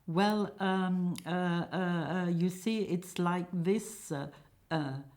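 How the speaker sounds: hesitant, nervous stammering; mildly frightened, halting delivery; trembling. Acted. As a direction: stall on every filler, nervously. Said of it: "Jim trembling".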